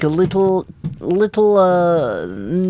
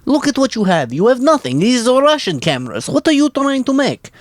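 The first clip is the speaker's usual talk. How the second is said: scolding America; 6 semitones higher than usual. Retold or imitated. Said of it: "and America said".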